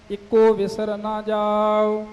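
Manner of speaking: ordinary talk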